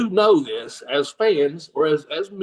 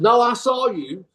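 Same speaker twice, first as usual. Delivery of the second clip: higher, drawn-out protest; insistent fan; 5 semitones higher than usual. Retold or imitated. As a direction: imitate a fan who insists. Fan insisting he saw him.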